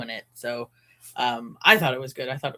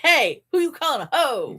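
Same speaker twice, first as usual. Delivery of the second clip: mock offended; 12 semitones higher, 4 dB louder than usual. Mock offended reply to cartoon.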